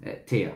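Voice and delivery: थिया with a falling end; ए then थिया, dropping at the end; letter pronunciation. Shown as a demonstration. Teacher repeats थिया for the class. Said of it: "ऐसे बोल सकते हैं आप".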